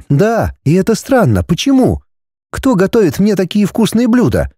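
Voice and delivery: put-on high, indignant young woman; girl's voice. A narrator's reading. Heroine questioning the dragon, high and puzzled.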